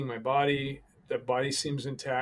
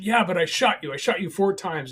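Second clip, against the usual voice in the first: retold insistence; 6 semitones higher, 8 dB louder than usual. Shooter insisting in panic.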